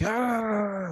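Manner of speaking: long high "aah" outburst; spewing cry. Retold or imitated. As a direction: let out a drawn-out, high mock wail. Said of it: "you start spewing".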